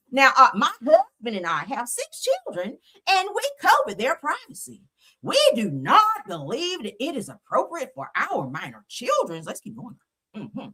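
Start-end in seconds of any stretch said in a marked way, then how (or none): 0.1-9.4 prim, higher-pitched mock Becky, lightly done. Mocking the judge's statement in a mock Becky voice. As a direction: read it like a smug prissy lady. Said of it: "I gotta say it in my Becky voice".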